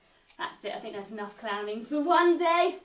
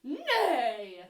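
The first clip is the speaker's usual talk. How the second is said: horse neigh. Shown as a demonstration. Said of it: "make a sound like a horse".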